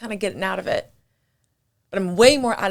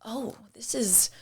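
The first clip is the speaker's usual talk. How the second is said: amazed whisper; 3 semitones higher, 9 dB quieter, slower than usual. Retold or imitated. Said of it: "I'm like".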